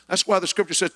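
normal talking voice

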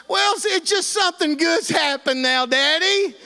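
high, imitated girlish excitement; giddy daughter. Daughter happily reporting on her book to Daddy, giddy. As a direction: gush it in a high voice. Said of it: "she's just a laughing and carrying on".

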